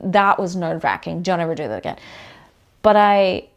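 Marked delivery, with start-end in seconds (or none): 1.2-2.0 nerves' voice. Retold or imitated. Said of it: "the nerves would have said".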